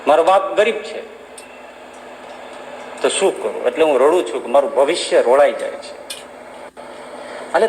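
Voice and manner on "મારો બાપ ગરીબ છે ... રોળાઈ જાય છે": lower, halting and sorrowful with long pauses; a poor boy's gentle despair, lightly voiced; understated tearful boy; sad pleading boy. A narrator's reading. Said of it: "ઉદાસ થઈને રડતો".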